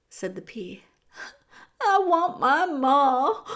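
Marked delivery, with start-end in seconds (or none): 1.8-3.4 slow, high, loud wail; anguished child's cry, drawn out. A narrator's reading. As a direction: wail for a missing mother. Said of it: "cried Meg into the silent".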